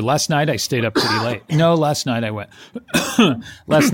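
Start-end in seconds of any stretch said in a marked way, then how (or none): 2.7-3.4 fake cough. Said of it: "is this another episode?".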